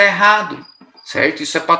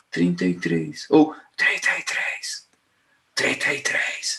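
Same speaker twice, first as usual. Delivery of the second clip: barely-there, very soft whisper; 3 semitones lower, 7 dB quieter than usual. Demonstrating how a patient says thirty-three again, in a soft low voice. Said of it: "só que com a voz baixinha".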